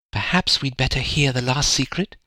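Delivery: hushed, almost whispering. Someone looks at Tom and speaks almost in a whisper. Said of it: "almost in a whisper".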